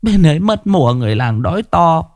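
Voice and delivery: high, tearful begging voice; a frightened wife pleading for her dying husband; pleading peasant woman. A narrator's reading. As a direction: beg the old man for shelter, pitched high. Woman answers the old man.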